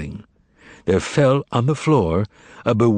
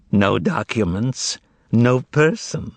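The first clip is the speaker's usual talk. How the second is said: slow, savouring satisfaction; satisfied; slower than usual. Acted. Korovyov burning the records, with satisfaction. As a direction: relish each word. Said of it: "said Korovyov with satisfaction".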